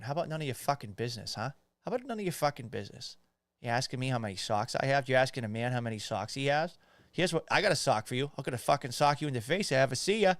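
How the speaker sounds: quick Boston trash talk; mock-threatening Boston local; Boston accent. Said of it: "that's the fucking Boston way".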